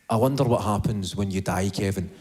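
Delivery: low, sly inner voice teasing; the wee night voice. Pretend. His inner night voice needling Kevin, low and sly. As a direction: drop low like a nagging voice in the dark.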